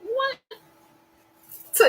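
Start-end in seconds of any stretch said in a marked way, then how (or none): 0.0-0.4 mock disbelief. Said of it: "And I was like".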